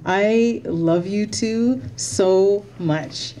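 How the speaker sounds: slow, choked-up thanks; slow, close to tears; fighting back tears. Real, not acted. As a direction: hold back the tears as you say it. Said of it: "I'm trying not to get emotional".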